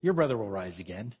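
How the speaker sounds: offhand shrug of a line; shrugging. Retold or imitated. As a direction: toss it off with a shrug. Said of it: "this is Mary shrugging".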